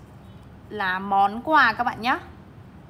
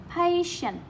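Patient said higher, stress on PA, then falling; stress on first syllable; 6 semitones higher, 4 dB quieter than usual. Shown as a demonstration. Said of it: "Trọng âm một này".

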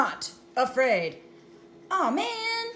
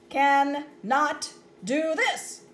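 slow lament; 2 semitones higher, 5 dB louder, slower than usual. Acted. Character lamenting slowly.

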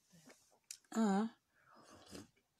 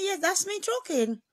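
proud retort; 8 semitones higher, much slower than usual. Retold or imitated. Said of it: "Mo ní".

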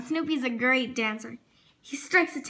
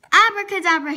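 a loud, higher stage-magician flourish; magic word; 4 semitones higher, 10 dB louder, faster than usual. A narrator's reading. Charlie Brown pulls Snoopy from a hat, loud showman call. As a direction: proclaim it like a showman pulling a rabbit.

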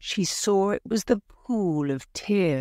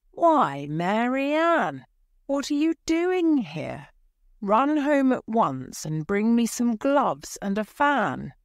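high-pitched, mildly indignant rabbit; lightly voiced fussy master giving orders; bossy rabbit; 6 semitones higher than usual. A narrator's reading. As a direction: scold a servant in a raised pitch. White Rabbit orders Alice about.

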